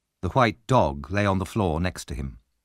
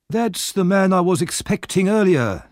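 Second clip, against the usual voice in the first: Fagin playing the kindly old man; fond old Fagin; 9 semitones higher, 3 dB louder than usual.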